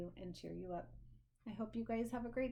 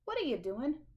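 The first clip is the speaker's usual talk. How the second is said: curious sheep; 5 semitones higher, 4 dB louder than usual. Acted. Sheep voiced in story.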